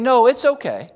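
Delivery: unhurried, gentle reassurance; imitating a composed prophet; very calm. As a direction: reassure a worried servant, steadily. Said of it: "very calmly saying".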